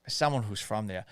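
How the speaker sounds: Boston accent with a dropped r. Shown as a demonstration. Host repeating himself as a Boston local, Boston accent. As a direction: slip into Boston, dropping the r in "there". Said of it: "That's how you do a Boston accent".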